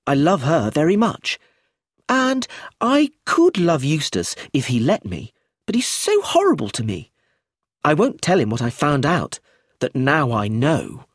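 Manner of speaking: put-on high, loud smug little girl; a child hinting at her secret, slowing at the end; precocious girl Josephine. Josephine voiced by narrator.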